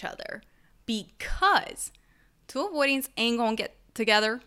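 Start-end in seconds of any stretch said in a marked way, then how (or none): 2.5-4.4 a slip into a quick Southern twang; Southern accent. Real, not acted. Podcaster explaining attachment styles, accidental Southern accent. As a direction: let a Southern lilt slip in, briskly. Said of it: "that sounded so damn Southern".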